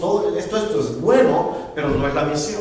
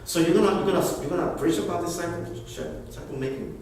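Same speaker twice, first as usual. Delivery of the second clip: God's inner voice; 6 dB quieter, faster than usual. Retold or imitated. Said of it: "sentí que Dios me decía en el corazón".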